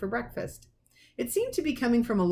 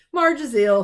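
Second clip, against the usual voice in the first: loud announcement; 5 semitones higher, 9 dB louder than usual. A narrator's reading. Vernon telling Petunia.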